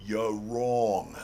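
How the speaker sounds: thick New York accent. Shown as a demonstration. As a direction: say it like a New Yorker. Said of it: "let me use my best New York accent".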